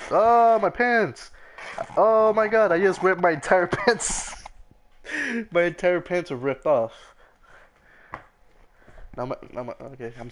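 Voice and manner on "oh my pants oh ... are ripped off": high, loud shocked yelp about the ripped pants. Real, not acted. Gamer yelling to friend that his pants ripped, high and loud. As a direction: cry out in mock horror at ripped pants.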